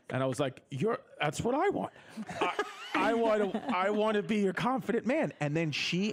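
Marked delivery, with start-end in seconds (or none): 0.7-5.3 high, eager blurt breaking into laughter; excited laughing. Retold or imitated. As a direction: gush it out, half laughing at yourself. Eager reply, laughing at himself.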